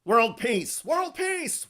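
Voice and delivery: mock beauty queen, high and bright; hammed-up pageant contestant answer; poised pageant answer. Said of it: "talks like a stereotypical beauty queen".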